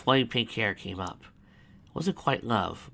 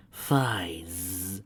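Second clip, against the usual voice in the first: through gritted teeth; 2 semitones lower than usual. Acted. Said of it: "said through her teeth".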